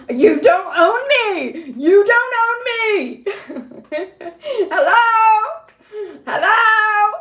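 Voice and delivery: high, loud laughing-crying yell; screaming defiance. Retold or imitated. Screaming at the buyers that they don't own her, high and loud. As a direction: shout it back at them, half laughing. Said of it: "I scream at them".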